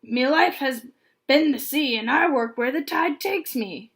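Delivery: lightly voiced gruff pirate; a hint of an old sea dog scowling; gruff pirate accent. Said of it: "scowled and spoke with a gruff accent".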